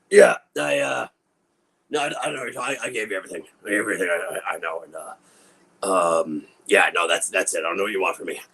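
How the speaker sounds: talking around gauze in mouth; muffled, mouth full of gauze. Real, not acted. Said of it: "I get gauze in my mouth".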